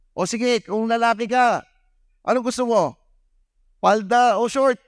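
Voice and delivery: high, teasing quiz voice; teasing host. Retold or imitated. Host quizzing the son at the party, high and teasing. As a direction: tease the boy with a choice.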